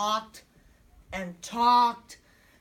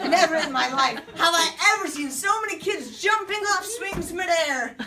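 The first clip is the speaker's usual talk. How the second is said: laughing; 6 semitones higher, 4 dB louder than usual. Retold or imitated. Kids jumping off swings.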